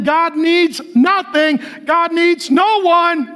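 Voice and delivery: yelling preacher on a roll; full-force preaching. Real, not acted.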